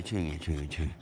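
soothing shh to a barking dog; soft hushing. Real, not acted. (작게 달래며 조용히 시키기)

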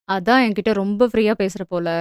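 low teasing line leaning on "ரொம்ப"; stress on ரொம்ப. A narrator's reading. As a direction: press on the word "ரொம்ப". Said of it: "ரொம்ப என்பதில் அழுத்தம் கொடுத்து".

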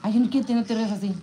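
mock scolding. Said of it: "Así, así le digo yo a Junior".

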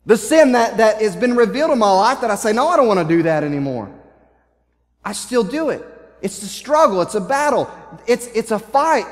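worked up, pushing the key words hard; Paul. Retold or imitated. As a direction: act out exasperation at an inner battle. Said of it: "I can see Paul getting so frustrated".

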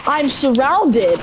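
slow, dismayed realization; alarmed. Real, not acted. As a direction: stretch it out in dismay. Swarmed by enemies in game.

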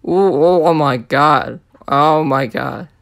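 thrilled gasping oh my god; real excitement over a big pull; shrieking jackpot winner. Real, not acted. Pulls a rare tag team card.

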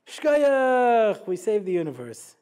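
a loud proud "Shkoyach" that falls, then eases off; mock self-congratulation. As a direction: pat yourself on the back with "Shkoyach" in a hammed-up way. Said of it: "give yourself a shkoyach".

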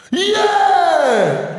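loud drawn-out yeah; mock cheer. Comic imitating neighbours cheering a goal, loud yell. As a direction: cheer like a goal just went in.

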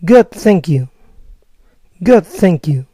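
Good, thank you with stress on good; American good thank you, falling. Shown as a demonstration. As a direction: answer like an American. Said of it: "Bien, gracias".

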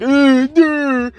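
hammed-up dumb guy mocking Adam Cole; dopey mock voice. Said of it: "he's just like".

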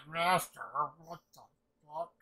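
high-pitched, disbelieving echo; incredulous echo. Retold or imitated. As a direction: echo the title in mock disbelief.

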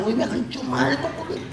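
hammed-up hurry, rising and fading away; mock running. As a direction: act out dashing off with a suitcase. Acts running with the suitcase.

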